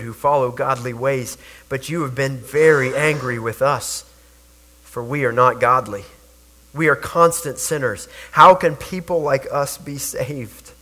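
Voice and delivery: measured, reverent Bible reading; scripture reading. Acted. Pastor reading Isaiah to the congregation, reverent and measured. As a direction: read the verses with reverence. Reads rest of chapter.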